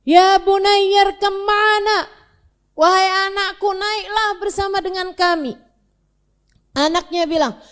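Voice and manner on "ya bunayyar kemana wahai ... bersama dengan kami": loud pleading call to the son; a father shouting to his son to come aboard. Acted. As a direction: call out to him across the water. Nuh calls to his son.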